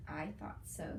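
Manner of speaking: soft, low knowing smile; smiling. Acted. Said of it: "with a smile".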